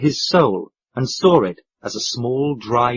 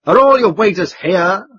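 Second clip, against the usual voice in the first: put-on low harsh accent; 6 semitones higher, 5 dB louder than usual. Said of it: "in his low, harsh accent".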